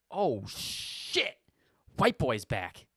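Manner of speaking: Corey shouting as he spots the clerk; excited shout. Retold or imitated. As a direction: greet him like a returning hero. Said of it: "he just goes".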